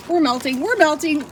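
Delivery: mock alarm, rising in pitch; mock panic. Host melting in pretend lava, mock panic. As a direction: play at panicking, building with each cry.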